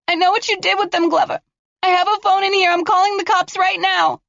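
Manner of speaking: high, sharp accusing question; defiant girl. Acted. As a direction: throw it back at him. Girl threatening to call police.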